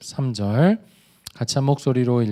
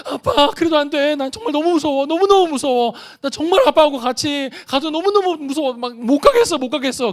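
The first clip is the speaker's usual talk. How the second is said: put-on much higher, louder wailing little boy; scared child; 11 semitones higher, 4 dB louder than usual. Son reacting to dad coming too, higher wailing child voice. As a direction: whine like a boy who is even more scared.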